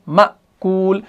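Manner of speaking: "मअकूल" with a catch after "म", long "कूल"; hamza jerk. Shown as a demonstration. Teacher demonstrating the jerk inside the word, hamza jerk. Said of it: "यानी एक jerk होती है इसके अंदर".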